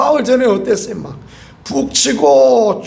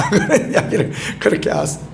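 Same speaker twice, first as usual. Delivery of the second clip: chuckling; 4 dB quieter than usual. Real, not acted. Chuckles after colleagues' wry remark.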